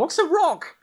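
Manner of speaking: very high, baffled heckler; confused villager. Acted. Villager interrupts the speech from the back, high confused voice. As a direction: squeak it from the back. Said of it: "someone in the back goes".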